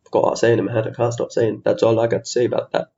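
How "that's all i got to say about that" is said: understated film-character impression; lightly put-on Southern American accent; a half-hearted movie quote, near usual pitch; Forrest Gump. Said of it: "That's also my Forrest Gump accent".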